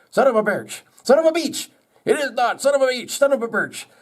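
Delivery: very high, cartoonish quarrel; mock bickering. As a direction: squeal it back and forth like squabbling characters. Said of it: "they argued back and forth".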